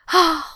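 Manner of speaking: high, short voiced sigh; a light acted sigh; theatrical sigh. A narrator's reading. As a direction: sigh with mock pity. Mock pity over missed show.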